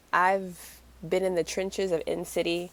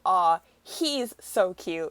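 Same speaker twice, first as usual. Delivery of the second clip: mock gushing; much slower than usual. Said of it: "made her go".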